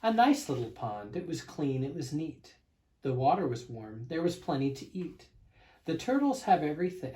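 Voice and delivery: put-on lively read-aloud to children; storybook reading. A narrator's reading. Narrator reading a picture book to kids, bouncy storybook voice.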